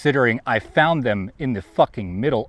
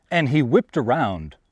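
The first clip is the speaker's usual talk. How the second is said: usual speaking voice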